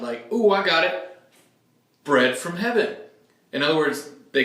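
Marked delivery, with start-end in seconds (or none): 0.3-3.0 higher and brighter-voiced, like a crowd member who just had an idea; eager crowd voice. Preacher voicing the bread-hungry crowd, lightly eager crowd voice. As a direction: pipe up like you've cracked it.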